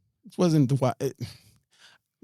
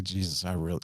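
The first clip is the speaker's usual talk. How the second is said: low, softer mock prayer; silent prayer retold; 6 semitones lower, 7 dB quieter than usual. Praying in her mind while surrounded, low hushed plea. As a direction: say it under the voice, as if inwardly. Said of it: "in my mind".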